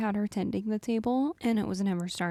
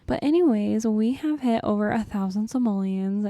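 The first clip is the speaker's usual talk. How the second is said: louder, proudly announcing it; loud celebration; 6 dB louder than usual. Shown as a demonstration. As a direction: say it again, much louder. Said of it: "Excuse me, we're trying to celebrate here".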